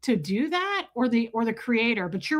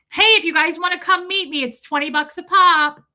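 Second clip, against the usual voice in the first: higher, louder fake cheerful pitch; mock sleazy creator; 6 semitones higher, 6 dB louder than usual. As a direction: play a greedy influencer upselling fans. Mock creator charging for meetup.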